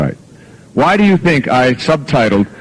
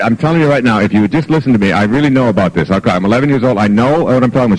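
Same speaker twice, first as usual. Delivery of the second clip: fast-talking daughter; faster than usual. Retold or imitated. Eleven-year-old daughter lecturing her father, talking fast. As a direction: mimic a child's rapid, nonstop lecturing. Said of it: "She talks really fast like this".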